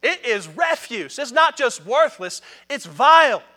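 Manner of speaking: loud, high, rising fervour; impassioned paraphrase of Paul. Retold or imitated. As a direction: preach Paul's words with mounting heat. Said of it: "He said".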